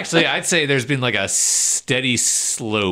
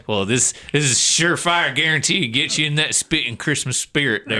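put-on southern accent; 2 semitones higher than usual. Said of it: "you wallered into that southern accent".

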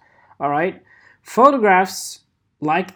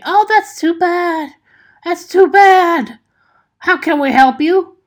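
call center agent; 9 semitones higher, 5 dB louder than usual. Acted. Skit: agent mock sympathy.

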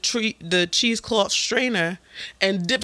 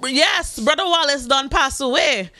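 high, earnest Caribbean aunt; aunt lecturing on covid; aunt's voice; 7 semitones higher, slower than usual. Retold or imitated. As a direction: preach about covid like an older aunt. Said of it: "Do not care".

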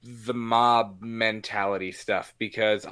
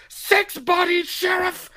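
high, loud mock outburst at the sheriff; hammed-up doctor yelling his case; imitating Loomis; 5 dB louder, slower than usual. Loomis shouting body count at the sheriff, mock high yell. Loomis quoted losing patience.

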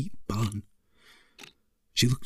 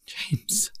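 sobbing; 9 semitones higher, 4 dB quieter than usual. A narrator's reading. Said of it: "she sobbed".

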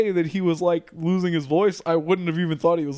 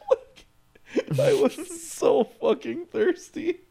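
laughing; 13 semitones higher, much slower than usual. Real, not acted. Laughing about being thirsty.

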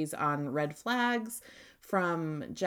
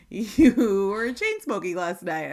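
retold reproach; 2 semitones higher, 7 dB louder, slower than usual. Retold boyfriend's morning-after reproach.

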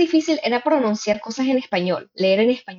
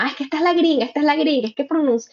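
imitated teasing; 5 semitones higher than usual. Imitates cousins' friends teasing her.

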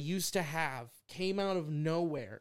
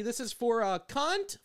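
barista call-out; 6 semitones higher than usual. Retold or imitated. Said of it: "like I'm ordering something at fucking Starbucks".

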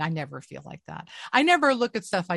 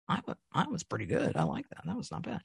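mildly impressed; 9 dB quieter than usual. Retold or imitated. Mildly impressed watching own show.

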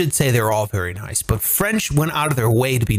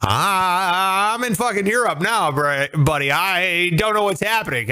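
mock bewildered tourist; 5 semitones higher than usual. Mocking lost tourist in Europe.

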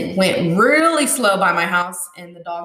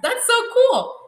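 higher, bright "What? That's so cool."; imitating her own amazement, pitched up high; excited reaction. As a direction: squeal it like amazed news. Something that's like.

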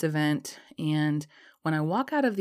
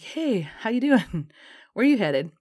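smooth pickup line; 6 semitones higher, 5 dB louder, slower than usual. Retold or imitated. Tall British guy hitting on her.

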